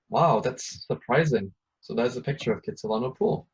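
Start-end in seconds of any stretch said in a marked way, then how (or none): 0.1-1.5 drawn-out mock amazement; slow surprised wow. Shown as a demonstration. Teacher reacting to the fun fact, slow and amazed. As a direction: stretch it out, marvel at it.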